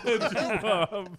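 loud lisping priest impression; Princess Bride priest. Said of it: "The Princess Bride".

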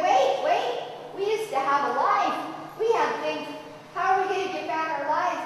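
alarmed protest. Acted. Disciples protest Jesus leaving.

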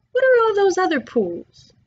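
high, eager question; excited discovery. A narrator's reading. Diggory to Polly about a wonderful idea, excited discovery. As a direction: blurt it out, pitch soaring.

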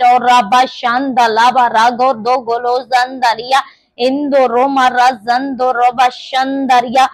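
fervent stream of tongues; speaking in tongues. Real, not acted. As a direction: pray in tongues without pausing. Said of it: "when you pray in the spirit of tongues".

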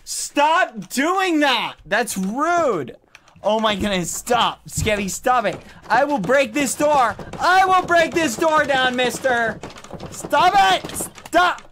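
high, loud furious demands; angry shouting. Real, not acted. Threatening to break Skeppy's door down, loud furious shouts. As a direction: bang on the door and yell.

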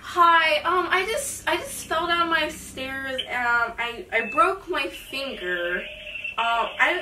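shaky, slow fake injured caller; nervous excitement. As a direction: act hurt and flustered, slowly. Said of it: "I get excited but nervous".

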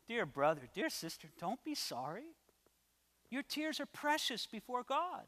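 softly comforting; gently reassure, with a softened voice; tender reassurance. Acted. Pastor praying with someone who is crying, tenderly reassuring.

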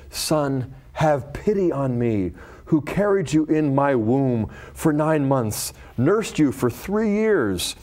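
measured, solemn reading of a scripture story. Acted. Reads scripture story aloud.

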